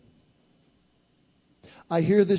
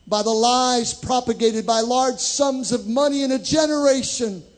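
rising higher and louder, pressing the men; building altar call; 7 semitones higher, 6 dB louder than usual. Real, not acted. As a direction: preach it harder with each question.

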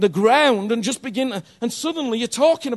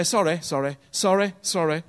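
glib mock sorry; 6 semitones lower than usual. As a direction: toss off careless apologies. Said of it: "many people say".

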